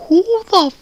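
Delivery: high, slow, loud outraged question; outraged shout. Retold or imitated. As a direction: blast the question in mock fury. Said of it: "but I'm like".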